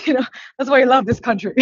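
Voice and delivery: laughing. Real, not acted. Nervous laugh while speaking.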